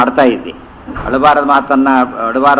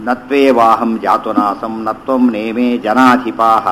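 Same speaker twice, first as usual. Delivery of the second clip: slow measured chanting of a Sanskrit verse; unhurried scripture recitation; 2 semitones lower, slower than usual. Acted. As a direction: intone the shloka slowly, word by word.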